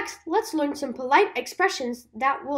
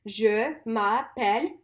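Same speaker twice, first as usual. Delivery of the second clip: "Je m'appelle" drawn out; slow repeat-after-me; slow model; 3 semitones lower, slower than usual. Shown as a demonstration. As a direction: say "Je m'appelle" slowly for copying. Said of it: "Try saying it with me".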